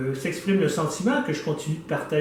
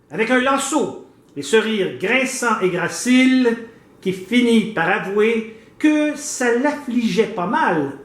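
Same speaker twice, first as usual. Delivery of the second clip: declaimed poem, deliberately phrased with pauses; poem recitation; 3 semitones higher, slower than usual. Acted. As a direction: recite it line by line, stretching phrase endings. (récitation de poème déclamée, vers par vers)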